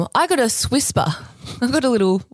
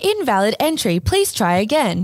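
robot voice. Acted. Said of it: "can I do a robot voice?".

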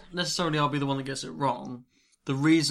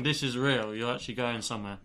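talking through a mouthful of food; chewing while speaking; mouth full. Real, not acted. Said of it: "I'm talking with my mouth full".

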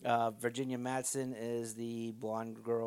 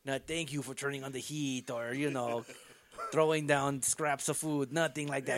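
mock captor rant; 3 semitones higher than usual.

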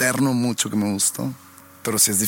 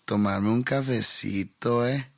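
slow Colombian accent; slower than usual. Shown as a demonstration. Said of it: "si hablan así muy lento".

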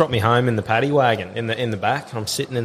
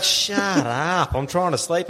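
higher-pitched mock irritation; annoyed retort; 5 semitones higher, much slower than usual. Sleeping mate answering the noisy intruder, mildly annoyed retort. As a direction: imitate a disturbed sleeper telling someone off. Sleeping friend snapping back in quarrel.

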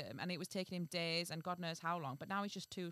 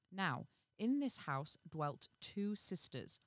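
measured fairy-tale reading; story narration. A narrator's reading. Reading a fairy tale to the co-host, measured narration. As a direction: read it out as a storyteller.

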